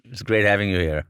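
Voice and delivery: talking with a mouth full of food. Real, not acted. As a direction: speak around a bite of macaroon. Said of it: "I've been talking with my mouth full".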